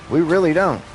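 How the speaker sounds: rising outrage, almost shouting; heated rant. Real, not acted. Heated rant against the police.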